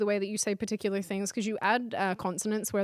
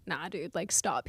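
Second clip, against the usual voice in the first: dismissive; 4 semitones lower, 7 dB quieter, slower than usual. Retold or imitated. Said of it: "I'm like".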